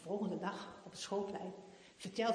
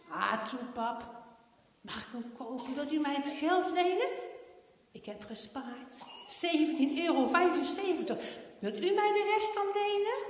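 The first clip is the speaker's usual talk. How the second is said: put-on higher, louder begging child; pleading girl; 7 semitones higher, 7 dB louder than usual. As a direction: coax dad into it. Heidi pleads to buy it.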